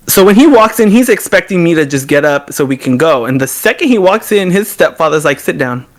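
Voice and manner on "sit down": stern stepfather. Retold or imitated. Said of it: "serious, even in the way that he spoke".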